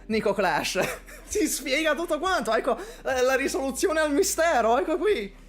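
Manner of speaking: rapid-fire Italian, gleeful mock accusation; mock triumph. Real, not acted. Teasing viewer Nico Clash for being from the north, fast gleeful mock accusation. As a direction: rattle it off fast, gloating that it all makes sense.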